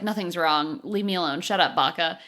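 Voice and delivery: low, sulky brush-off; grumpy Laura. Retold or imitated. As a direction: grumble it, annoyed and low. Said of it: "And Laura's like".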